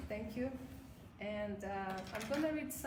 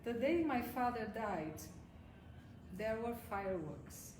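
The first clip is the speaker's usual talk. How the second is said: measured poetry reading with long pauses; poem reading. Acted. Poet reads her own new work to the audience, measured poem reading. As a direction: read the poem line by line, pausing between phrases.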